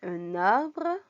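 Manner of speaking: "un arbre" linked by an N, "un narbre"; teacher's careful "un arbre", rising at the end; with liaison. Shown as a demonstration. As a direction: carry the n of "un" into "arbre". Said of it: "la liaison".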